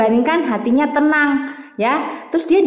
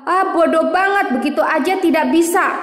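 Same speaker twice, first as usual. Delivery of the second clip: mocking put-down; 5 semitones higher than usual. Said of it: "Jangan bilang".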